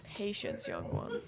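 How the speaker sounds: hushed sage-like whisper; whispered wise voice. Pretend. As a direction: breathe it out like a secretive master. Repeats wise line as a whisper.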